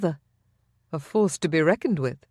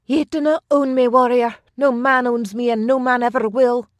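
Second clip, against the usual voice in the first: much higher and louder, fierce and passionate; vehement defiance; 7 semitones higher, 6 dB louder than usual. A narrator's reading. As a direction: throw every word at him with fire. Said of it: "the vehement passion in her tone".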